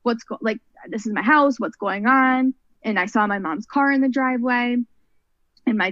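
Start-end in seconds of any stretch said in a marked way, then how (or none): 0.0-2.5 frantic. Retold or imitated. Frantic daughter at blocked house.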